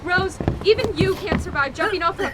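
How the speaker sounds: loud, high cry of warning; panicked shout across the wind; alarmed shout. Acted. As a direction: yell after her as she jumps. Partner leaps off moving train.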